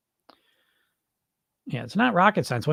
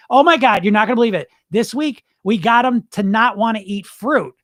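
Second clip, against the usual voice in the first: loud, higher, gleeful imagined boasting; mock-amazed gloating, pitched up; giddy diet executive; 4 semitones higher, 5 dB louder than usual. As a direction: act out an executive bragging about a prank. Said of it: "they're laughing so hard".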